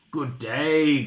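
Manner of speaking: a touch of a wolfish growl; lightly growled storybook wolf. Acted. Wolf greeting Little Red in the woods, light growl. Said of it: "growled the wolf".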